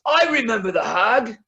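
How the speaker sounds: high, put-on old man's voice; one old dwarf interrupting the hymn. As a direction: chime in like a doddering old dwarf. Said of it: "one old guy that goes".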